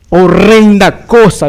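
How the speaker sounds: "horrenda cosa" drawn out slow and loud; dramatic emphasis. Acted. Preacher warning of God's discipline, "horrenda cosa" slow and forceful. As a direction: stretch "horrenda cosa" with heavy weight. Solemn dramatic stress on verse.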